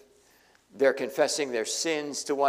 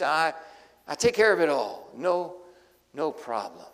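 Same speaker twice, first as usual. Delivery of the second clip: reassuring brother. Pretend. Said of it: "He doesn't do it. No, he just".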